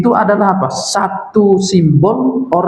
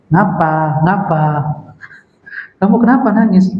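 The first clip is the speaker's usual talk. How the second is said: mock unsympathetic questioning; uncaring husband. Rough husband questioning his crying wife, mildly brusque. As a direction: act out a husband with no compassion. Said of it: "ini ciri-ciri suami kasar ya".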